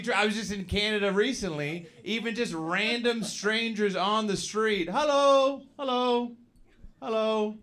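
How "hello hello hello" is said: high, cheery sing-out hello; friendly greeting. Acted. Canadian strangers greeting him on the street, friendly.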